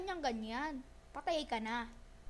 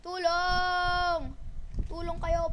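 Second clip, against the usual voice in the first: calling for help; 6 dB louder, much slower than usual. Real, not acted. Calling teammates for help mid-fight.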